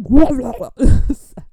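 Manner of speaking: loud, high gibberish burst; mock accent noise. Joking about the scary accent, loud garbled noise. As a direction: blurt a nonsense parody of the accent. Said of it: "It's very, like".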